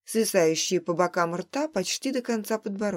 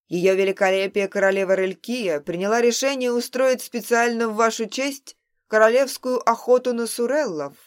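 louder, formal herald announcement; booming; 5 dB louder than usual. Acted. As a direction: proclaim it grandly to the hall. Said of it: "Затем громогласно произнёс".

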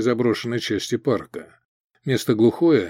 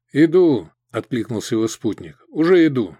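calling back; 3 dB louder than usual. Acted. Calls back while trudging.

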